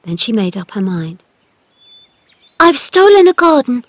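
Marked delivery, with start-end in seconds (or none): 2.6-3.8 very fast. A narrator's reading. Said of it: "very fast".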